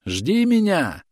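high, drawn-out yell; yelling across field. A narrator's reading. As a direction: shout it across a wide field. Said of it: "орал Бурнакер через зелёное поле".

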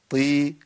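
"طي" with heavy ط and long i; thick "ṭii"; firm ط held into ي; emphatic ṭ with kasra. Shown as a demonstration. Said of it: "الحالة الرابعة".

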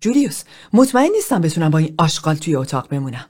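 fast, hard-edged rush of words; agitated and disgusted. Acted. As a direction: blurt it out, barely controlled. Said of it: "پم سراسیمه". (با عجله و انزجار، سراسیمه)

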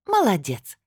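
impressed exclamation; admiring. A narrator's reading. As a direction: praise a friend with admiration, pitch lifted. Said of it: "восхищённо цокнула языком".

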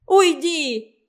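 high, loud shriek; shrieked cry. A narrator's reading. Mother shrieks at her son Igor, high and loud. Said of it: "вскрикнула Любовь Михайловна".

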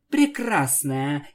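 slow sarcastic jab; drawn out with sarcasm. Acted. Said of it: "язвительно добавила она".

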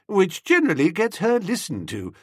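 ordinary delivery, nothing marked

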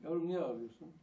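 mother calling out high and loud, at her wits' end; a fed-up mother raising her voice; pleading loud call to a crying child; exasperated mother. Retold or imitated. Mother asks, losing patience.

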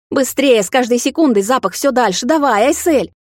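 high, urgent, impatient urging; losing patience. A narrator's reading. Vampire urges the girl to freeze the juice, high impatient plea. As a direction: hurry the listener along in rising desperation. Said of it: "терял терпение Карай".

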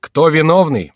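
high, loud outcry; shouting courtier. A narrator's reading. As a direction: shout the question to the room. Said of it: "вскричал Мажерон". (громкий выкрик придворного)

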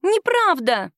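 high shrill yelp; squealing. A narrator's reading. Woman squeals denial at the captain again. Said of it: "снова взвизгнула".

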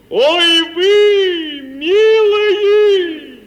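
high ringing call to the troika; calling to the horses. Acted. Petya calls out to his troika horses, high and loud.

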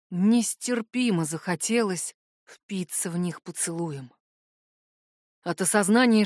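usual speaking voice

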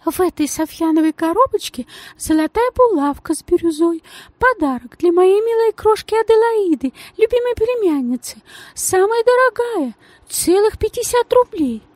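gushing society lady in a tiny high voice; thin high voice. Acted. The lady explains the pin.

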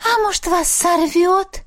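high, slow, dreamy ghostly voice; dreamy ghost sigh. A narrator's reading. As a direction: sigh it out as if wishing for disaster. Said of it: "мечтательно вздохнула Мисси". (мечтательный вздох привидения)

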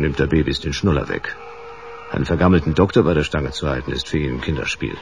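a cool, clipped crime-story narrator; noir voice-over narration. Acted. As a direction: tell it like a weary private eye.

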